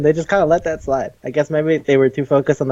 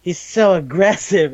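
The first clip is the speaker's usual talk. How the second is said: mock dainty victim; 6 semitones higher than usual. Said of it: "She's like".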